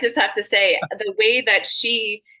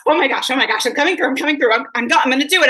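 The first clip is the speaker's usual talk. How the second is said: eager spirit; 4 semitones higher, 4 dB louder, much faster than usual. Retold or imitated. Medium voices eager spirit.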